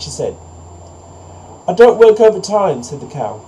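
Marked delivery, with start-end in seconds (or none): 1.7-2.8 high, loud cow voice; cow refusing. A narrator's reading. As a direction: refuse loudly in a high storybook voice.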